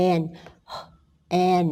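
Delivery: "and" as a separate "an" chunk, no d; phonics-style "and" with the d left off; sounding out. Shown as a demonstration. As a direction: sound out "and" as "an" after a pause. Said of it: "เวลาไล่เสียงไล่มาแบบนี้นะ".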